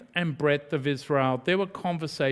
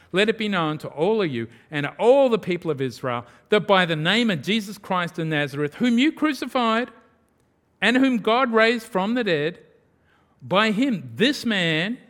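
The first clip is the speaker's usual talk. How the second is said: raised, ringing public declaration; bold proclamation; 4 semitones higher, 4 dB louder than usual. Acted. Peter defying the rulers before all Israel, bold proclamation. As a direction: proclaim it to all, pitch and volume climbing.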